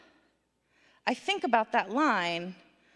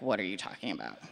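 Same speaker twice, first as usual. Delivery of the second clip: baffled outsider; 13 semitones lower, 8 dB quieter, faster than usual. Retold or imitated. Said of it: "if you're not a kid who grew up back east, you're like".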